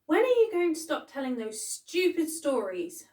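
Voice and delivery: high, loud and scornful; harsh voice. A narrator's reading. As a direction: sneer it from the doorway. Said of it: "a harsh voice said".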